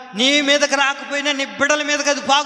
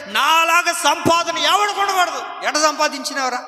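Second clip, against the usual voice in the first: mocking shout; 4 semitones higher than usual. Preacher mocking a greedy earner with a shout. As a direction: hurl the greedy man's boast back at him.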